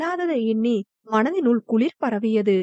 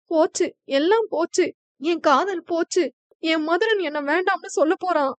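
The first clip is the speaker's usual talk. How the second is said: crying lament; 4 semitones higher than usual. Acted. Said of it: "புலம்பியபடி அவள் அழுக".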